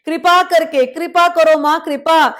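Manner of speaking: loud devotional plea to the goddess; loud pleading. Acted. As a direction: beg the Mother loudly for mercy. Praying to the goddess for mercy.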